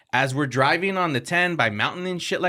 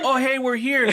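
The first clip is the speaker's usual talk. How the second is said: higher, coaxing sing-song wake-up call; calling out gently; 11 semitones higher than usual. Retold or imitated. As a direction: try to wake a passed-out rider. Waking groggy passenger.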